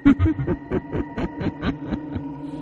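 shrill ghostly cackle from outside; eerie demon cackle. Acted. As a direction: cackle like a demon toying with its prey. Demon laugh, very high, far. (tiếng cười quỷ dữ rợn người)

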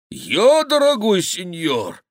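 high, loud, slow pleading wail; whining fat monk begging mercy. Acted. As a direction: grovel for forgiveness at his feet. Monk protesting innocence.

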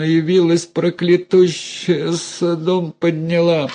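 put-on high, wailing groans of an old woman. A narrator's reading. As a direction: lament as if your head splits. Mother moaning in pain. (стонущая старуха, высокий жалобный голос)

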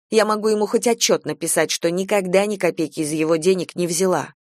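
lightly voiced aggrieved mother venting; indignant chatty friend. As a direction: pour out complaints to a close friend, mildly worked up. Same friend resumes complaint. (слегка возмущённая болтливая подруга)

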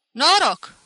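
high, booming toast; loud hearty greeting. A narrator's reading. Pinto greets the whole tavern, loud and hearty. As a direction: call it out to the room. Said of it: "spuse în gura mare".

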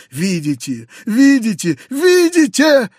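starts plain, climbs to a high loud scream; building to a shriek. A narrator's reading. Foma throwing the scraps, rising to a shriek. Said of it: "мгновенно воспламеняясь".

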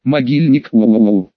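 lightly spooky ghost moan. Acted. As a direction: say it like a campfire horror tale. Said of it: "страшным голосом повторил бегемот".

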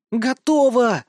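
high, loud triumphant cry; girl shouting gleefully from afar; shouted. A narrator's reading. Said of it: "прокричал знакомый голос".

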